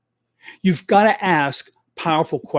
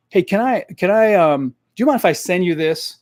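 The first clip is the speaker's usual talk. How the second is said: timid asking; 2 semitones higher than usual. Shown as a demonstration. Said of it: "they ask permission".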